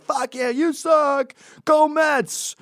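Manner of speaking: mock stadium shout; sports fan yell. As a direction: holler like a Mets fan at a game. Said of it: "screaming like at a football game".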